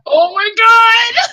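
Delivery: high, drawn-out wail of dismay. Pretend. Player reacts to a deadly save, dismayed wail. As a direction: cry out "oh no" style, long and high. Wailing in dismay at the perilous rolls.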